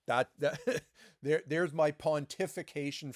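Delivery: chuckling through the words; self-mocking laugh. Real, not acted. Laughs at own lecture.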